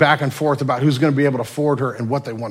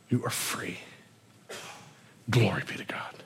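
soft whisper to the congregation; preacher whispering the closing blessing; hushed; 2 semitones lower, 11 dB quieter than usual. Real, not acted. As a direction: let it fall to a reverent whisper.

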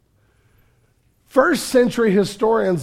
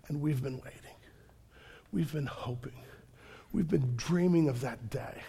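near whisper, low and soft; hushed longing; 5 semitones lower, 14 dB quieter than usual. Acted. Preacher hushing the crowd about long waiting, soft near whisper. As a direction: draw them in with a breathy hush.

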